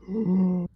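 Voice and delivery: big breathy intake before speaking; creature gasp. Pretend. Large creature spots the adventurers, gasping.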